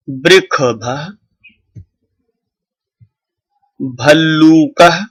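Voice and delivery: each word carefully pronounced with a long pause before the next; clear model reading. Shown as a demonstration. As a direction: say each picture word distinctly so students can copy it. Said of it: "उसका उच्चारण करें". (धीमा, साफ़ उच्चारण)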